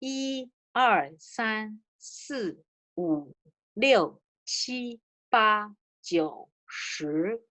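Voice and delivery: counting one to ten in Chinese, each tone clear; teacher counting aloud in Mandarin; Chinese numbers. Shown as a demonstration. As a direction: model the Chinese numbers for the class. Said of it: "It's a".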